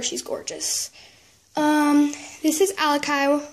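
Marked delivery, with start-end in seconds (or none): 0.0-0.9 softer whispered praise; admiring whisper. Real, not acted. Admiring her new toy horse.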